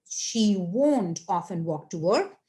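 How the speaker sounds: won't drawn out in a slow model sentence; stress on WON'T. Shown as a demonstration. Teacher pointing out the negative, slow stress on won't. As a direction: read it slowly, leaning on won't. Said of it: "and this your won't".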